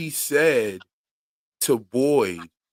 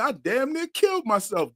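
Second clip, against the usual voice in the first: mimicking boy; 7 semitones higher than usual. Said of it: "he said".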